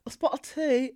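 put-on trying out a British accent; tentative fake British English. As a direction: feel your way into a mock British accent. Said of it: "what was that British accent?".

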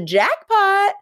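high, hammed-up jackpot cry; imitating a gleeful girl; mock delight. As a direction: shoot way up in pitch, playfully thrilled. Acting girl's delight at hot partner.

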